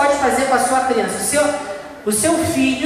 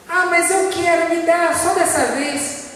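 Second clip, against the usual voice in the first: put-on higher, whining kid begging for candy; whiny child; 5 semitones higher than usual. Child in the supermarket whining to his parent for candy. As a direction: play a child pleading for a sweet.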